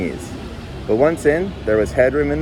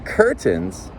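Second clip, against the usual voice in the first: demanding; 2 semitones lower than usual. Acted. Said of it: "he demanded".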